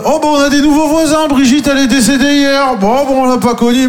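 very high, chirpy gossip voice; mock cheerful neighbour. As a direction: play a breezy neighbour shrugging off a death. Mock neighbours chatting on balcony.

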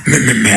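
beatbox. Acted. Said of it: "ma mère fait du beatbox".

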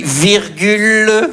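drawn-out comma call; slow dictation. Pretend. Teacher dictating punctuation to the class, slow.

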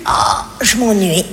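bored sigh. Acted.

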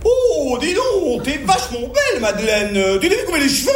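high-pitched mock Parisian lady; high, affected Parisian gossip. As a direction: imitate a gushing Paris woman, swallowing the silent E's. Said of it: "j'entends une dame qui disait".

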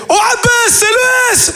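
put-on very high squeaky kid voice; imitating little brother. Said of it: "il fait". (petit frère imité, voix très aiguë)

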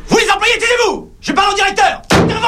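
high, loud order to shut up; angry shout. Acted. Robber yells at laughing employees.

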